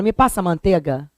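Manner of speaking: "manteiga" com E puro, sem o I; pronúncia carioca sem ditongo. Shown as a demonstration. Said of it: "Porque o carioca fala". ("manteiga" dito "mantega", à carioca)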